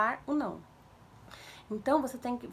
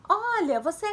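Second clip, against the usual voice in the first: high, loud scolding from above; lecturing a child; 7 semitones higher, 7 dB louder than usual. Shown as a demonstration. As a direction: launch into a parent's telling-off. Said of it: "dando um sermão na criança". (sermão na criança, voz aguda e alta)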